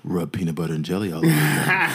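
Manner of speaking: mock-sultry DJ voice right up on the mic; deep slow jams DJ. Shown as a demonstration. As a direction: play it seductive and deep, about to crack up. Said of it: "that voice gets real deep".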